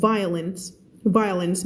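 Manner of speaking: "violence" squeezed to VAI-lens with final s; run-together English sound. Shown as a demonstration. Teacher repeating for students, "violence" as VAI-lens. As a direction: say "violence" with the middle swallowed, hiss of s at the end. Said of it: "ภาษาอังกฤษเสียงรวบ".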